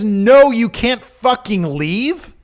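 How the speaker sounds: high, slow mock boss refusal; mocking the boss for refusing to let him go; mock Vince McMahon. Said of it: "he adds months ... and says".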